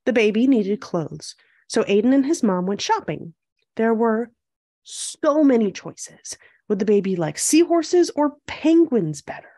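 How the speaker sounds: measured storybook read-aloud; picture-book narration. A narrator's reading. Host reading a picture book to young viewers, storytelling. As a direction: read it clearly to young children.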